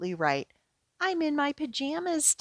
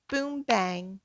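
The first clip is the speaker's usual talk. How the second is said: drum sounds. Acted. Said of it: "Try tapping on this drum".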